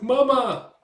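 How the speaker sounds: put-on high, loud kid's shout to his mother; calling back. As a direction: yell back to mom. Boy calls back to mother.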